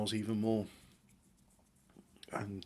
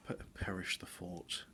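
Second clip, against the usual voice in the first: whispered ironic aside; 4 dB quieter than usual. Real, not acted.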